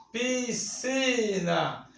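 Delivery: piscina said slowly and softly, with no separate S sound; slow clear pronunciation. Shown as a demonstration. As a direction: stretch out piscina slowly, dropping the S. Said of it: "eu pronuncio piscina ou piscina?". (piscina pronunciada devagar, sem o S)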